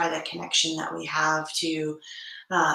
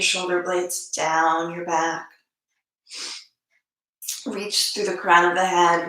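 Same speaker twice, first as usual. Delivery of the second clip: measured cues, long silences between phrases; unhurried yoga teacher settling the class; guided meditation. Acted.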